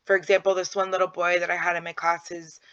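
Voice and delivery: ordinary delivery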